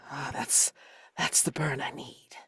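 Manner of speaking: breathy whisper after a shot. Acted. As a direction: whisper it through the burn. Whisky burn, whispered.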